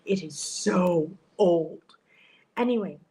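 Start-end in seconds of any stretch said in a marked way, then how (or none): 0.0-1.8 hushed unvoiced whisper. Real, not acted. Whispering to viewers in a hotel hallway. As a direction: whisper it so nobody hears.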